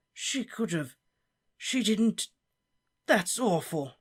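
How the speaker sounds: lightly voiced old professor, mournful; a fussy old wizard, genuinely sorry; Slughorn. Slughorn lamenting the death of Harry's parents.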